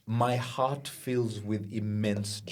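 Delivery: mock tender. Mock heartfelt.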